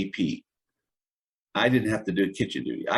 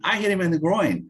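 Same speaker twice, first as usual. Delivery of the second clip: retold yell; 9 semitones higher than usual. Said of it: "one guy yelling".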